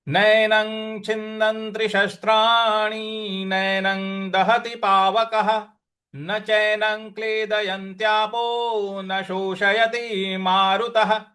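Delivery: whole verse intoned in steady chant; shloka recitation. Shown as a demonstration. Teacher recites the whole shloka for students to copy. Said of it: "इस प्रकार से इसको बोला जाएगा".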